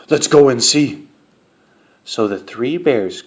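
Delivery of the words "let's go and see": lightly voiced big bear; Papa Bear. A narrator's reading. Papa Bear tells family of an intruder, big-bear voice. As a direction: give a hint of a great big bear.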